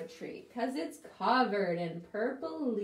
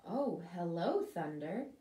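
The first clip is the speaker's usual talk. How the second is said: hushed lower hello; little person; 5 semitones lower than usual. Acted. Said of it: "The little person says".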